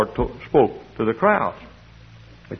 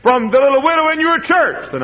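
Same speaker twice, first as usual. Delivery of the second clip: quoting a pastor; 10 semitones higher, 6 dB louder than usual. Retold or imitated. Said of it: "He said".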